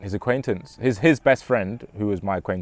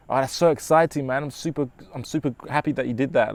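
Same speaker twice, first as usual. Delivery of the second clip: excited congratulations; 4 semitones higher than usual. Shown as a demonstration. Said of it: "mentioned the emotion that I'm feeling".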